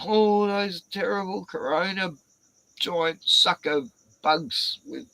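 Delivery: hammed-up panicky voice, slowing on the sucker bugs; mock the fearful folks at home; mock scared. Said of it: "everyone's at home going".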